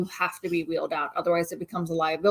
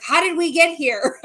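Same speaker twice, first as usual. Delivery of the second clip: higher, louder confused question; dazed husband; 7 semitones higher, 6 dB louder than usual. Retold or imitated. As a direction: play a groggy husband just out of anesthesia. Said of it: "He's like".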